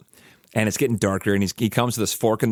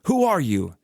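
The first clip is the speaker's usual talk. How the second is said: mock guard yell; 8 semitones higher, slower than usual. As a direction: call down to a stranger below, half-acted. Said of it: "the guard yells down".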